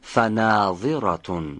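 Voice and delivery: فناظرة said slowly with a voiced ظ; slow model of فناظرة; model word. Shown as a demonstration. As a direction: confirm by repeating slowly. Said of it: "بله، فناظرة".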